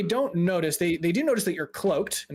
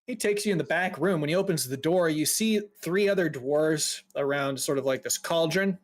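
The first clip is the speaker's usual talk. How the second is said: ordinary delivery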